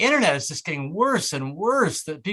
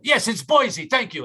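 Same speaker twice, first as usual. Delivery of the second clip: gas station attendant; 6 semitones higher, slower than usual. Retold or imitated. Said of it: "expect them to speak English".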